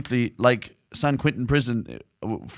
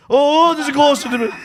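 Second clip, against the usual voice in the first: mock surprise; 13 semitones higher, 6 dB louder than usual. Mock spooked mid-conversation.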